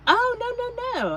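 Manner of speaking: high, loud startled oh no; a sudden jump up in pitch, half laughing; surprised oh no. Real, not acted. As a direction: squeal it out in surprise. Reacting to something in chat.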